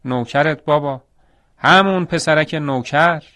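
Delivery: lightly acted complaint, drawing out the last words; mild tearful whine. Injured boy telling father who did it, mildly tearful.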